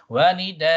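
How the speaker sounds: "Wa nidaa" chanted with long drawn vowels; held final hamza. Shown as a demonstration. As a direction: stretch "nidaa", then hold the open ending two beats. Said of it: "You hold it for two harakat".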